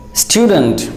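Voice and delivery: STUDENT with a y-glide, "STYOO-dnt"; native-English pronunciation. Shown as a demonstration. Teacher models native speakers' student, pronounced "STYOO-dnt". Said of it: "its accurate pronunciation according to".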